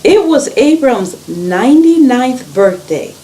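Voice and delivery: animated storytelling, stressed words lifted; story read-aloud. A narrator's reading. Reader tells children of Abram and God's promise, animated storytelling.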